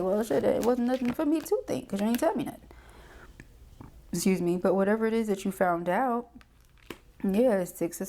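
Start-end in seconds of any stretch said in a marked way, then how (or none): 0.0-2.6 mock exasperated reply. Voicing the fed-up listener.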